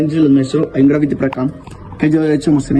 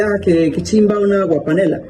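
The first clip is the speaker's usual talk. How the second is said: a hint of a Colombian street voice; Colombian slang; 3 semitones higher than usual. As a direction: toss it off like a local from Colombia. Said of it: "nosotros podemos decir". (imitando a un colombiano con jerga)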